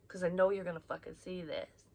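ordinary talk

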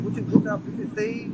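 shrieked up high in mock offense; high mock outrage. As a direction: squeal it like you can't believe it. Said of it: "I'm like".

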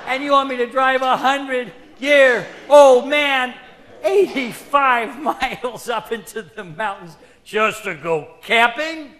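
laughing disbelief. Acted. Incredulous retort to old man.

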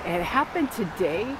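slight lisp, sore tongue. Real, not acted. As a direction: talk carefully around a swollen tongue. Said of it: "kinda have, like, a slight lisp to it".

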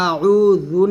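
আউযু said with a Bengali jha instead of zal; slow wrong-letter demo of আউযু; wrong jha sound. Shown as a demonstration. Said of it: "জালের জায়গায় যদি আমি ঝা উচ্চারণ করে ফেলি".

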